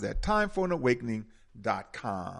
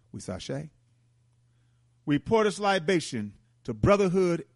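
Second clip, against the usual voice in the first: ceremonial libation; 3 semitones higher than usual. Acted. Host pouring libation to the ancestors, solemn ritual invocation. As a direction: intone each pour like a ritual blessing.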